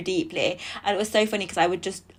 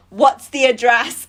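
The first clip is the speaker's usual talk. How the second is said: insistent boss; 3 semitones higher, 7 dB louder, slower than usual. Retold or imitated. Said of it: "He's like".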